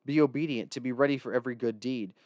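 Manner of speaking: measured Bible reading voice; scripture reading. Acted. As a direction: read the scripture aloud with reverence. Reads scripture aloud.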